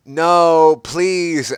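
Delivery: high, hammed-up plea; mock begging. A narrator's reading. Ebony begging for her life, high mock plea. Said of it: "I begged".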